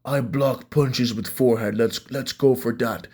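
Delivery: slow mock foreign accent in halting English; slow, halting put-on accent with dropped words; imitating Yuri's broken English. Vlogger imitating the fighter's confident logic, slow mock accent. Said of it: "and he's like".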